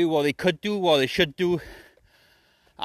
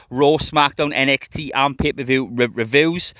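ringmaster; 5 dB louder than usual. Pretend. Podcast intro announcer style.

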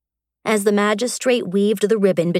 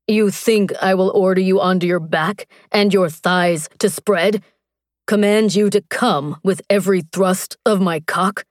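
a hint of a hulking warrior, a touch louder; lightly voiced warrior; 3 dB louder than usual. Strax mocks Mara's threat, lightly voiced warrior. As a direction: taunt her as the big warrior, lightly voiced. Strax taunts Mara at dagger point.

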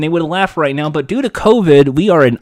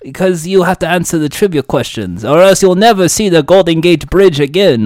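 hammed-up villain with wobbly Russian; bad Russian accent drifting off course; attempted Russian accent. Villain warning the hero, attempted Russian accent. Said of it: "you do a Russian accent".

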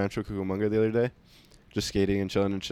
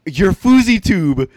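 slow, higher and louder mock stranger; 8 semitones higher, 10 dB louder, much slower than usual. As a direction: drag the name out like the confident stranger. Stranger mistakes him, retold.

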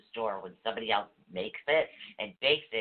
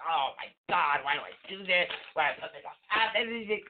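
mock upset; 4 semitones higher than usual. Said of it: "taken that and all upset".

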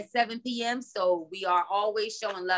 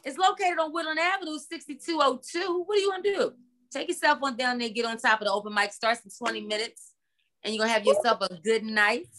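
promo announcer. Acted. Hosts a promo read.

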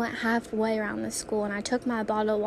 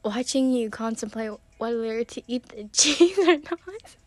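louder, giggling through it; quoting her friend mid-laugh; laughing quote; 4 dB louder than usual. Retold or imitated. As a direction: imitate a friend cracking up.

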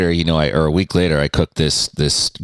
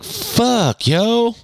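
disgusted outburst. Retold or imitated. Exasperated outburst at the smell.

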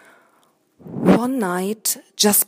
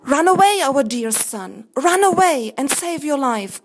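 desperate cry; 5 semitones higher, 4 dB louder than usual. Acted. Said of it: "cried the parents".

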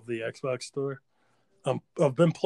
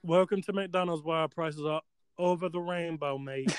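bored worker in a bad Irish accent; half-hearted, failed Irish accent; terrible Irish accent; 4 semitones higher than usual. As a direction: greet customers in a badly faked Irish accent. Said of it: "That was a bored black woman speaking".

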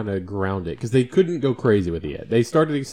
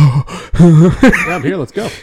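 eager reply; 6 semitones higher, 11 dB louder, much slower than usual. Retold or imitated. Friend arriving, retold eager reply.

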